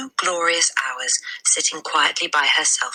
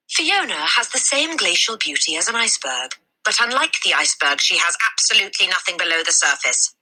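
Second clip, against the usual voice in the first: mock report; 3 semitones higher than usual. Teacher's mock report on a pupil.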